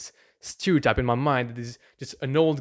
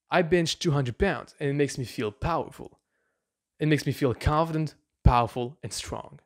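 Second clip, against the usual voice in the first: felt affirmation. Shown as a demonstration. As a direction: let the pride sink in as you say it. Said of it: "you add emotion".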